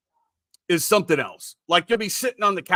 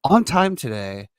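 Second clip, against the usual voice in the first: a singer's voice; 2 semitones higher, 4 dB louder than usual. Pretend. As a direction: croon the morning greeting like a lounge singer. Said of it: "I'm talking like a singer".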